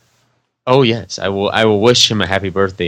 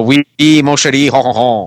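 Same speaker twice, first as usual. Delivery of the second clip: put-on French accent; 5 dB louder than usual. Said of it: "so it would be something like".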